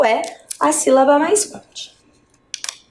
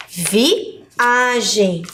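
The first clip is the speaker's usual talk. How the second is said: "Viagem" in separate syllables, leaning on the A; stress on A. Shown as a demonstration. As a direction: break "Viagem" after "Vi" and stretch the A. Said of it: "a letra A é uma sílaba". ("Viagem" silabado, com o A alongado)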